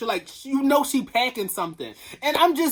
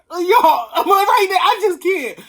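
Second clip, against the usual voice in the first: high, loud wail with laughter; laughing wail; 7 semitones higher, 7 dB louder than usual. Real, not acted. Vlogger to fans, laughing wail. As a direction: break up laughing as you cry out.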